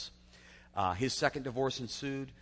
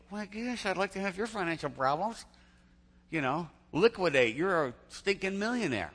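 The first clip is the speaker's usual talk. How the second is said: mock exasperation; 8 semitones higher, 4 dB louder than usual. Imagined reply to rich worriers.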